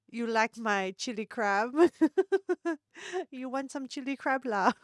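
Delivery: light mock Singaporean accent; casual pickup line in a Singaporean accent. Vlogger tries a club pickup line in a Singaporean accent. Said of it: "Is that the pickup line?".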